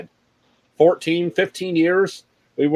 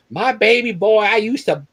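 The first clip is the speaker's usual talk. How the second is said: doting mom voice; 4 semitones higher than usual. Retold or imitated. Mom bragging in jail pod.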